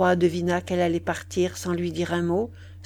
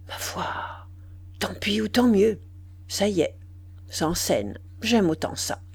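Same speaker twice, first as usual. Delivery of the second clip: muttered to himself. Acted. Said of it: "il murmura".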